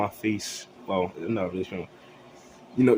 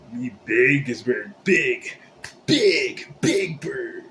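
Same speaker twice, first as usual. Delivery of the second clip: loud, rising brag, each big louder; boastful bird shout; 3 semitones higher, 7 dB louder, slower than usual. Acted. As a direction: bellow it like a proud giant bird. Bird character boasting loudly.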